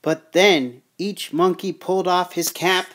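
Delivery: measured storybook narration; story read-aloud. Acted. Reading the peddler's tale to children, storytelling voice.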